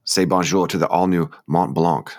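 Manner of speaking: slow read with a touch of bad French accent; lightly Frenchified ad copy, drawn out; terrible French accent. Co-host reading shoe website copy, mild French accent. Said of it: "sorry, that was my terrible".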